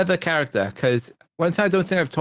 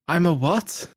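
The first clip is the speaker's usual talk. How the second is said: higher, mock-baffled question; imitated baffled Harry; 4 semitones higher, slower than usual. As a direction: act out Harry's disbelief lightly. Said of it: "it's a classic video".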